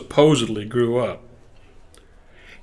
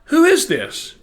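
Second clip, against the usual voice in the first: high-pitched questioning mother voice; mother demanding who; 14 semitones higher, slower than usual. Retold or imitated. Mother asks the stranger on the phone, high imitated questioning. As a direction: imitate mom quizzing a caller, voice way up. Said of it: "My mother".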